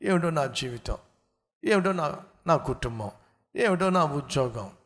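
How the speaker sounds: mimicking a worrier's self-pitying moan; mock lament. Preacher mimicking worried believers, mock lament. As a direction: whine about your lot, mockingly. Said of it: "మనలో చాలామంది చింతిస్తూ ఉంటారు".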